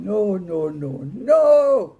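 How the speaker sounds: no, no, rising into a full yell; Mama shouting. A narrator's reading. Mama stopping the boys' gunfight, building to a shout.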